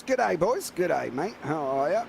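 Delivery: a broad mock Aussie accent hello; jokey Aussie accent greeting the co-host. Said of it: "Don't ask me to do an Aussie accent again".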